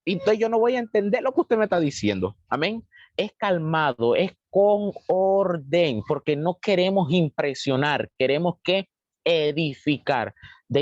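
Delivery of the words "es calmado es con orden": very slow, measured delivery; calm and orderly. Shown as a demonstration. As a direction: draw each word out to model order. Models calm, orderly speech. (muy pausado, con calma y orden)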